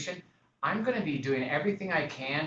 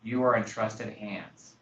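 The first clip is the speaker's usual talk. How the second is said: measured, soothing client talk; calm reassurance; 2 semitones lower than usual. Retold or imitated. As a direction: talk them down calmly, taking your time. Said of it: "the inflection of your voice".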